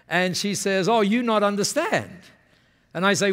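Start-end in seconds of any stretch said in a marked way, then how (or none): 0.9-2.2 slightly higher imitated Japanese-English; Masami's Japanese-accented English. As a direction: correct him in a Japanese speaker's broken English. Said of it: "when they speak like that".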